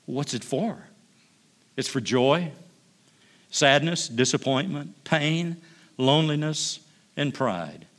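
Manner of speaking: lively storyteller reading, voicing God and angel; story reading. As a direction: read the tale like a gentle storyteller. Reads story aloud to congregation.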